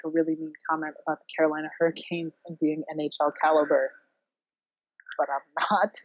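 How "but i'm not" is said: a teasing, self-censoring whisper. Real, not acted. Host whispering instead of insulting the Hurricanes, whispered. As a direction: drop to a whisper to bite back a jab. Holding back a mean comment.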